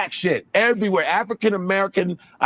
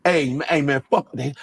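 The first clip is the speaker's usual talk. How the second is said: low-key Black American street voice; Black American accent; 4 semitones lower than usual. Shown as a demonstration. Comedian showing the accent audiences like, Black American accent. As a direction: lightly put on Black American slang delivery. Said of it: "that black American accent".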